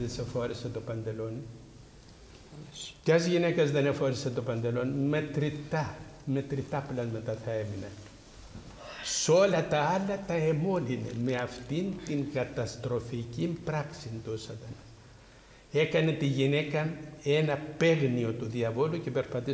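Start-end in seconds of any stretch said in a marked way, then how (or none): none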